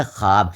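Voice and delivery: teacher's clear خواب, pronounced "khaab"; silent vao. Shown as a demonstration. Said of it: "یہاں واو جو ہے پڑھا نہیں جا رہا ہے".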